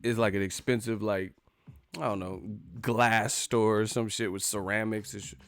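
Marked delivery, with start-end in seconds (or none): none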